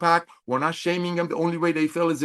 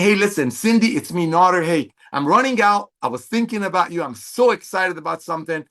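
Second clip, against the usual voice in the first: friendly sample call. Pretend. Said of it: "and saying".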